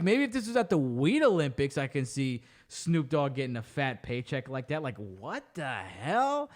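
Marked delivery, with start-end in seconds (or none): 4.8-6.5 quiet, half to yourself, baffled; low muttered disbelief. Real, not acted. Vlogger muttering to herself about the Snoop paycheck, low and quiet. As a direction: drop low and mutter it under your breath.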